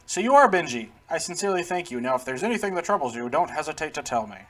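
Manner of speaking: lightly voiced, earnest character; a slightly put-on voice of sincere thanks; amateur character voice, politely grateful; grateful game character. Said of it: "My voices are bad".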